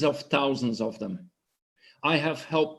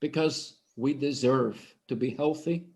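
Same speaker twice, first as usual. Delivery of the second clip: ordinary delivery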